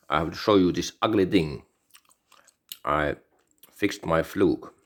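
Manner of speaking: talking while chewing gum. Real, not acted. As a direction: speak around a wad of gum. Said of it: "Sorry, I'm chewing gum".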